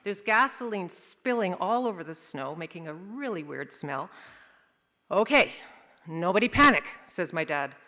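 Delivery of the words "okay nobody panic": loud, firm order in short bursts; commanding dad. Acted. Dad to family after the crash, loudly taking charge. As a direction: take charge, pausing after the first word.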